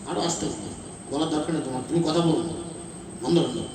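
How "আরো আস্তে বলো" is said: mock hush. Mocking the quiet audience.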